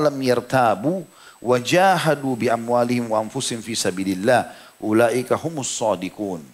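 measured Arabic recitation with drawn-out vowels; Quran recitation. Acted. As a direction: recite the verse slowly, holding the long syllables.

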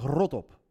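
"rot op" with a rolled opening R; "rot op" with a clearly heard trilled R; audible R. Shown as a demonstration. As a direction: roll the R that starts "rot". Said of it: "dan hoor je die R wel".

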